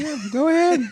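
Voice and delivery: quoted reply. Retold or imitated. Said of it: "I'm like".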